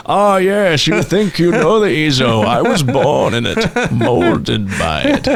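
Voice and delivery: drawn-out muffled movie villain voice; Bane. Acted. Co-host breaking into a character mid-explanation, Bane impression. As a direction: put on a grand, muffled supervillain. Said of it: "going full into Bane".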